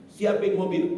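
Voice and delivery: urgent order. Retold or imitated.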